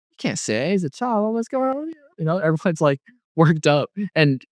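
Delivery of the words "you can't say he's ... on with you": high-pitched mock protest; shocked onlookers. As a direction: imitate a scandalized crowd, pitched way up. Crowd shocked at the child's words.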